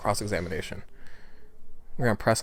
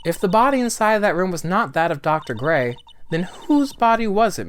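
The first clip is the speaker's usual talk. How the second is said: raised, pressing courtroom voice; challenging prosecutor; 7 semitones higher, 6 dB louder than usual. Acted. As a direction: demand an answer, climbing in pitch.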